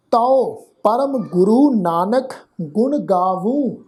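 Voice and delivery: slow, measured verse reading; scripture recitation. Shown as a demonstration. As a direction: recite each word slowly and distinctly. (ਹੌਲੀ, ਠਹਿਰ ਕੇ ਗੁਰਬਾਣੀ ਪਾਠ)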